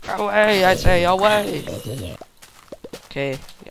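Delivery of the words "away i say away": hammed-up old-fashioned command; mock archaic command. Gamer hams up a knightly command at a zombie. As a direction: play a lofty knight banishing a foe.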